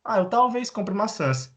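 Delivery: light acted reply; mock casual reply. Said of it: "Ah, você vai no mercado?".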